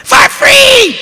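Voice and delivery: excited exclaim. Acted. Family admiring the new TV, a high thrilled cry. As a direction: jump up high on it. Improv character praising free TV.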